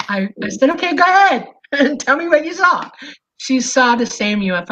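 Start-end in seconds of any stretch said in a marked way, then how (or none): 0.7-2.9 high, laughing go-ahead to a friend; laughing reply. Retold or imitated. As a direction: laugh through it, knowing already. Friend about to share sighting.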